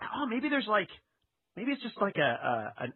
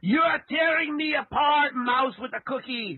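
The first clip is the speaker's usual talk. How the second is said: mock anguished outburst; 8 semitones higher, 6 dB louder than usual. Wiseau's famous line, burst.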